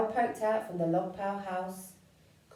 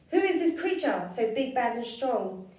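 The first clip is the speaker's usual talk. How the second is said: put-on frightened child; 3 semitones higher, 5 dB louder than usual. Child sees frightening shadow.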